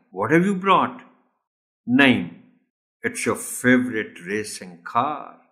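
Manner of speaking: lightly voiced two boys at a birthday; dialogue read aloud. Shown as a demonstration. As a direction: read the dialogue as a slow role play. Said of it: "Ask the students to role play the dialogue". (बच्चों का संवाद हल्के अभिनय के साथ)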